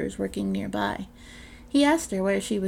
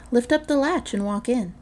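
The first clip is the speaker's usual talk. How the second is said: wolf disguising his voice; 4 semitones higher, 5 dB louder than usual. Acted. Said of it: "The wolf disguised his voice".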